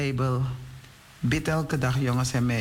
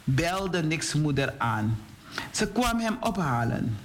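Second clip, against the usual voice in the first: put-on storytelling to children; 2 semitones higher than usual. A narrator's reading. Telling boys and girls about Hans and his friend, animated storytelling. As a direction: read it out clearly for young listeners.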